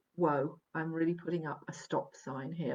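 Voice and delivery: plain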